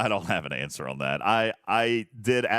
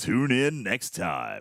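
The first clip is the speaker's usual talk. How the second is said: dramatic announcer trailer voiceover. Teasing the next episode, the podcast host says the sign-off as a voiceover read. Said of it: "Is that a good voiceover read?".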